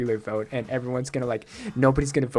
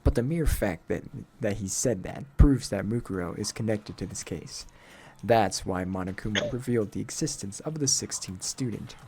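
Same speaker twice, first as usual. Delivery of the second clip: slightly lowered, serious explainer; stern, aloof game character; 5 semitones lower, 4 dB quieter than usual. Acted. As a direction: lay out the deduction in a cool character voice. Low figure voice reasoning in game.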